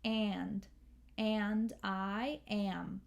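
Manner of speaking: slow "and I am", the A's slightly up in the nose; nasal vowel. Shown as a demonstration. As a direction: send the vowels of "and" and "am" a little nasal. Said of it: "it goes a little up in the nose".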